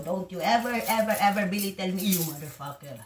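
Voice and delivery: building anger toward the last "ever"; a rising threat, each "ever" harder; angry warning. Real, not acted. Warning the downstairs moron never to belittle her, angrily.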